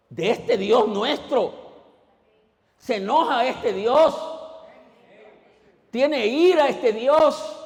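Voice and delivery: loud, high, slow preaching; fiery pulpit preaching, drawn out; preaching at full force. Acted. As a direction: proclaim each line of the commandment. Preaching on God's anger.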